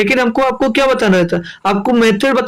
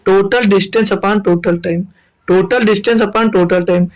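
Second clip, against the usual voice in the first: slow dictation; much slower than usual. Shown as a demonstration. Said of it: "क्या formula लगेगा?".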